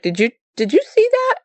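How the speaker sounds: high, quick, stumbling question; retold startled question. Mother asking son about legs jumping the road, startled. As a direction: replay a startled ask, pitch jumping up fast.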